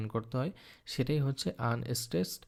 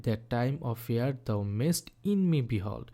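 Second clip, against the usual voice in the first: slow recitation; much slower than usual. Shown as a demonstration. Teacher reading a Shakespeare sonnet line aloud to students, slow recitation. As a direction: read the sonnet line very slowly, each word on its own. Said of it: "sonnet seventy three এর একটা line".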